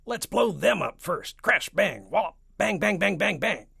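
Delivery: high, loud trigger-happy army chief; excited crying out. A narrator's reading. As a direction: shout out the explosions like an overeager boy. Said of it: "cried the chief of the army".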